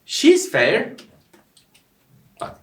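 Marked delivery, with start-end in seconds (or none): 0.0-0.9 "She's fair" pitched up as a question; statement words "She's fair" said questioningly; question by intonation. Shown as a demonstration. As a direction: ask "She's fair" by tune alone. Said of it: "soru sorarken".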